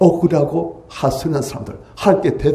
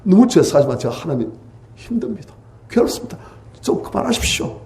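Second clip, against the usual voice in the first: pained plea to God; 3 semitones higher than usual. Acted. Preacher voicing a sufferer's honest complaint to God, pained plea. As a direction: plead with God, worn out and hurting. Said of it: "진솔하게 자기 감정들".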